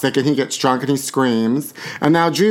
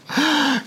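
sharp high gasp; a sudden shocked intake of breath; 13 semitones higher than usual. Real, not acted. Host hears Michael's estate is being sued, sharp gasp. Reacts to estate lawsuit news.

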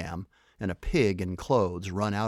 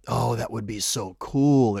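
slow, louder, thrilled outburst; excited exclamation; 6 dB louder than usual. A narrator's reading. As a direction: savour it, delighted and loud. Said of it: "exclaimed Stevie".

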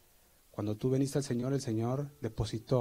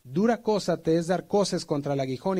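voice of Jesus; 5 semitones higher, 4 dB louder than usual. Retold or imitated. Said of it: "Y le dijo".

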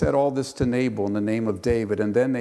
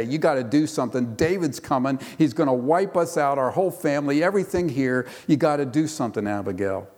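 urgent pleading; 2 semitones higher, faster than usual. Retold or imitated. Servants warning Abigail that David is coming, urgent pleading. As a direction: rush it like frightened servants begging for help.

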